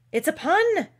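high, loud, indignant protest; storybook king in a huff; offended. A narrator's reading. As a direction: insist on it, wounded that nobody got it. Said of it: "the king added in an offended tone".

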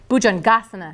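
Bhujangasana modelled clearly, falling at the end; pronunciation demo. Shown as a demonstration. Teacher has trainees repeat the pose name, clear model pronunciation of Bhujangasana. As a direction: say Bhujangasana for a class to echo. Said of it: "Let's say it".

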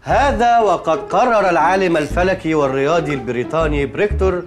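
slow, formal dictation in classical Arabic. Acted. Boss dictating a formal text to a slow typist, slow and formal. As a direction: spell it out slowly for a typist. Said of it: "dictating text slowly".

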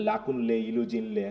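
লাকুনলে and ইলুজিনলে with the le sounded clearly; local pronunciation. Shown as a demonstration. Teacher modelling the names for students, le clearly voiced. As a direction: say লাকুনলে, ইলুজিনলে with the le fully pronounced. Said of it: "এলি থাকলে এলিটা উচ্চারণ করব".

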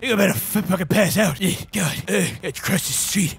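playing at a drunken superhero; drunk Batman. Drunk Batman fobbing off his waiting followers, slurred role-play. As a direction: mumble it like a hero who's had too much. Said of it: "I've been drinking quite heavily".

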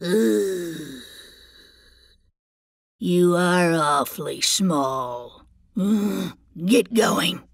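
low, grumbling troll. Acted. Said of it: "said the troll".

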